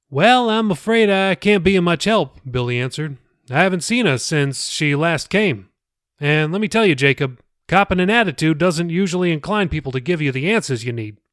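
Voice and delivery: easygoing pastor chatting; pastor Billy, friendly. Acted. The pastor recalls a girl from church, lightly voiced.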